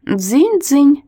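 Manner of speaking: high, squeaky ding-ding. Acted. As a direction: squeak it out like a toy bell. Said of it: "писклявым голосом сказал он".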